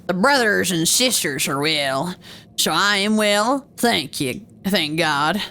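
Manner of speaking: lightly put-on pirate monk. Monk tells Andreas all are well, light pirate voice. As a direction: give the monk a hint of pirate. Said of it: "let's give him a pirate t-, voice".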